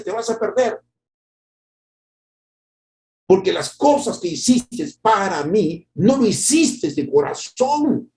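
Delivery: high, slow solemn pronouncement; God's verdict. Acted. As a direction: deliver the judgment gravely. God answers Amasías. (voz de Dios solemne y lenta)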